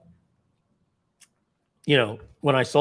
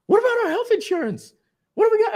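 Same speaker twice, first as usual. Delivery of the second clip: much higher, louder nagging wife voice; 6 dB louder, faster than usual. Retold or imitated. Wife worried about health insurance, high nagging voice. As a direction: play the worried wife, giving him a hard time. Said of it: "she gives me a hard time".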